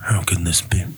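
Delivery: spooky breathy whisper; creepy whisper. Shown as a demonstration. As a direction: whisper the question like a ghost story. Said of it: "read it in a creepy voice, a spooky voice".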